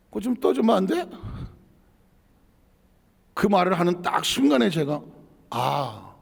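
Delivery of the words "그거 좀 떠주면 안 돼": retold complaint. Retold request for water, first complaint.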